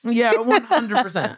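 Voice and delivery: laughing while agreeing. Real, not acted. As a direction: giggle it out.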